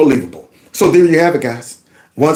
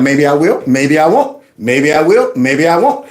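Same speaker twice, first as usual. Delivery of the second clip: teasing singsong; 3 semitones lower than usual. Retold or imitated. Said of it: "until the cop got tired of playing games".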